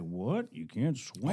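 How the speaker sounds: a hint of the big star questioning a kid; John Wayne. Film star answering the kid who can't swim, lightly imitated. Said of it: "the John Wayne video".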